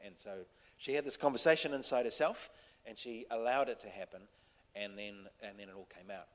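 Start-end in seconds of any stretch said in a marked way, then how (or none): none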